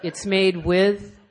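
slow, halting mock poetry recital; poetry reading. Shown as a demonstration. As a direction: stretch the jingle out like a pretentious poem. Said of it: "You know how people read poetry?".

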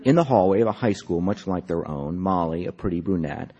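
measured literary reading, phrase by phrase; story narration. A narrator's reading. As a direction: read the story aloud with deliberate, lifted phrasing. Reads own story aloud.

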